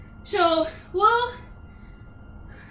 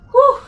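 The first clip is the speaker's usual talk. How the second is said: breathless whew; 6 semitones higher, 11 dB louder than usual. Real, not acted. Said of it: "I am out of breath".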